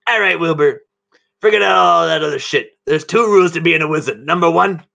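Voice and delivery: a hint of a scheming mentor; Zahn's voice. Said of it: "this is Zahn's voice".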